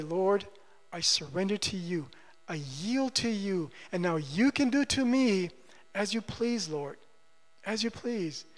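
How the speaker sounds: soft, yielding prayer; prayerful surrender. Acted. Believer yielding to the Lord in prayer, quietly submissive.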